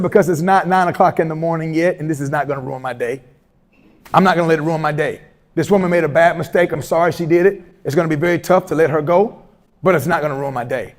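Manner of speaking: calm reply. Retold or imitated. Calm reply to irate superintendent.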